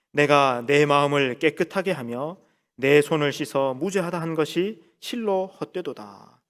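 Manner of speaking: slow, measured congregational verse reading; scripture reading. Acted. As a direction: lead the congregation slowly through the verse.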